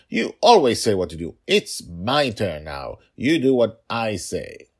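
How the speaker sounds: put-on high, loud, demanding kid voice; mock bossy child. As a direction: insist like a stubborn little girl. Father playing daughter, demanding.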